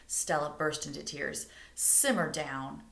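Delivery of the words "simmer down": slow, soothing simmer down; calming dad. Acted. Father calming his upset daughter. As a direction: settle her down gently. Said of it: "her father said".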